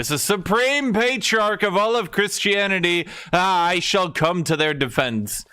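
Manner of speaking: hammed-up self-importance; a mock-regal Pope granting his help; pompous Pope. Pope agrees grandly.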